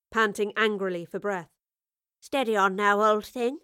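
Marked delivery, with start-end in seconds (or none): 2.2-3.6 calm. A narrator's reading. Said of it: "said the professor calmly".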